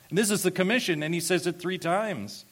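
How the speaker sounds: emphatic, high exhortation; impassioned preaching. Real, not acted. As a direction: drive the point home fervently. Preacher still in full exhortation.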